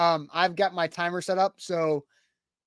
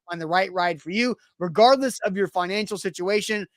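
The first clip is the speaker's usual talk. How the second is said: ad read. Acted. Live sponsor read mid-show.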